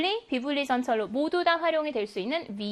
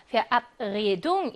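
Verabredung with the stress on AB, the second syllable; 3 semitones lower, much slower than usual. Shown as a demonstration. Teacher showing the derived noun's stress, Verabredung stressed on AB. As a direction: punch the AB in Verabredung. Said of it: "이음절에 강세가 있었겠네요".

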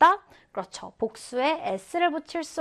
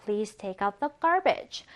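slow reread; 3 semitones lower, much slower than usual. Shown as a demonstration. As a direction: repeat it slowly. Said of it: "무엇을 내놓다죠". (다시 천천히 읽기)

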